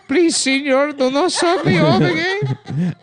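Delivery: very high, loud pleading with laughter; squeaky little man. Acted. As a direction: beg in a tiny high voice.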